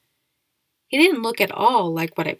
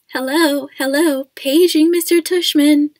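high, loud mock old-lady announcer; fake old lady voice; 8 semitones higher, 10 dB louder than usual. A narrator's reading. Dad mimicking a school loudspeaker page, fake high old lady. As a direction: page someone in a silly high old woman's voice. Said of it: "using a fake high old lady voice".

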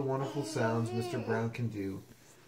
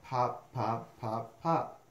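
crisp, separate pops; popping cork; much slower than usual. Acted. Reader imitates a cork for the listener, popping. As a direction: pop each word like a cork. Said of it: "He can sound like a cork".

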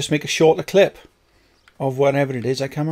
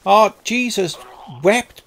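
exasperated exclamation; 7 semitones higher, slower than usual. Real, not acted. Exclaiming at game mishap.

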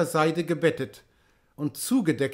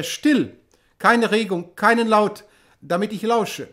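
urgent hush; 4 semitones higher, 5 dB louder than usual. A narrator's reading. Abbot hushes men urgently.

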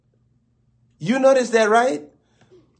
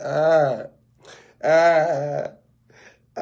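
mock pained ah; 4 semitones lower, much slower than usual. Customer in pain, signalling the braider.

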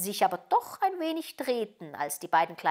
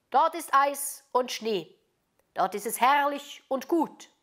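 proud reindeer; 6 semitones higher, 4 dB louder than usual. A narrator's reading. Reindeer telling Gerda of snowy Lappland, proud. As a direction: praise the homeland with relish.

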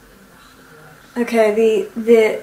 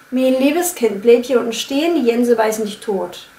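Berlin accent. Shown as a demonstration. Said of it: "the G's become J's".

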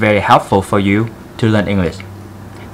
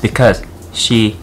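put-on Vietnamese accent. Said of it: "I want to do this video in very thick Vietnamese accent".

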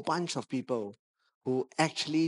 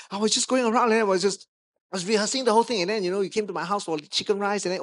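Ant-Man talker; 3 semitones higher, 4 dB louder, faster than usual. Retold or imitated. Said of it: "Remember the guy that talked like that?".

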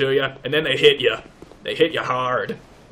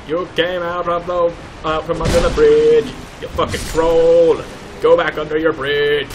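half-joking loud yell at a game enemy; yelling at troll; 2 semitones higher, 4 dB louder than usual. Pretend. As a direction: shout him back under his bridge, mock angry.

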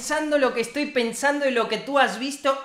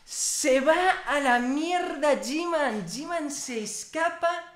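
slow, stretched-out words of disbelief; amazed reaction; 4 semitones higher, slower than usual. Real, not acted. Amazed as villain flees. (asombro incrédulo, palabras alargadas)

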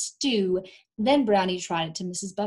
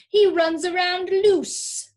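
higher, louder, slow complaint; complaining; 10 semitones higher, 8 dB louder, slower than usual. Acted. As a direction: grumble about the loose dog. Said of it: "Miss Buttersworth added".

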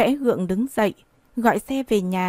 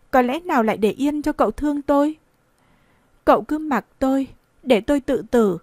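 put-on young woman refusing; 3 semitones higher than usual. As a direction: turn him down, then threaten suicide. Nguyệt refuses the old man. (cô gái từ chối, tuyệt vọng)

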